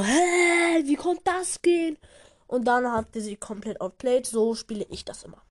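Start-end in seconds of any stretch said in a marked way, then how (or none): 0.0-2.0 high, puzzled what-just-happened; baffled squeak; confused surprise. Retold or imitated. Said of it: "du denkst dir so".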